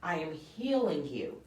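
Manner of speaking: slow, measured divine pronouncement; God. Retold or imitated. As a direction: speak slowly as a voice from above. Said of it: "it was like God was saying".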